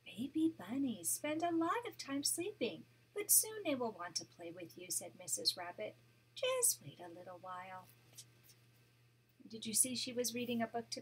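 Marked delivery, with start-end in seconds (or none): 0.0-7.9 gentle read-aloud storytelling voice; storybook narration for a grandchild; story narration. A narrator's reading. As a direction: read it like a bedtime picture book. Grandma reads picture book aloud.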